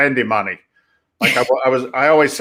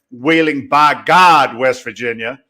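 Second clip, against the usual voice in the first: louder, slowed West Virginia drawl on by God; West Virginia local accent; 4 dB louder, slower than usual. Retold or imitated. Guest mimics how West Virginians say their town, local accent. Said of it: "or as they say down there".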